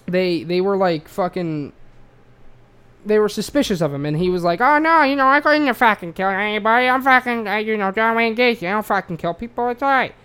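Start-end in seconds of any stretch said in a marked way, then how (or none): 4.6-10.1 a goofy killer playing innocent, pitched way up in an Australian twang; Australian Peter Griffin. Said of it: "You just turned him into an Aust-, Australian Peter Griffin".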